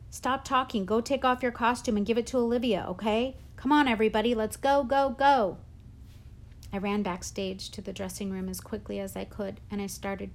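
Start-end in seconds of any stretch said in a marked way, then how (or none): 0.1-5.6 louder, higher, building to a shout; rally everyone with mounting urgency; barked orders. A narrator's reading. Teacher hurrying cast before curtain, barked orders.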